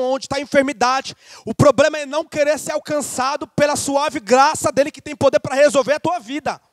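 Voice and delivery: impassioned pulpit delivery; pregação fervorosa. Real, not acted. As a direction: preach it with rising intensity. Preaches at full force. (pregação inflamada)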